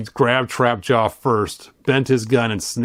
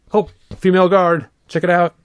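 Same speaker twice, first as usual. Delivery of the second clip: higher and louder, delighted find; excited; 7 semitones higher, 4 dB louder than usual. Real, not acted. Showing viewers a female guard, excited. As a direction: spot it and light up. Excited discovery of toy art.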